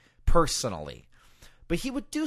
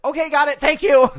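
higher and louder, nervous rush; flustered nervous reply; 14 semitones higher, 11 dB louder than usual. Retold or imitated. Nervous announcer thanking an angry Taz, high and flustered. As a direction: blurt it out, eager to escape. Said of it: "I'm like".

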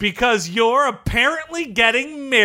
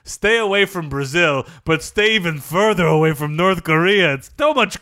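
character voice; 4 semitones lower than usual. Acted. Luis Fernandez character voice.

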